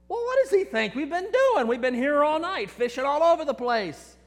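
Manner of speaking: complaining they've tried all night; exasperated. Acted. Fishermen protesting to each other, high and exasperated.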